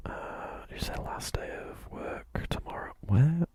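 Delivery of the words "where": whispered outburst jumping up high; startled at what chat said; sudden surprised whisper. Real, not acted.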